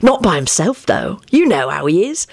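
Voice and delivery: cheerfully eager, lifting high at the end; lightly gleeful; happy. A narrator's reading. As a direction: add it happily, building in pitch. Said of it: "he added happily".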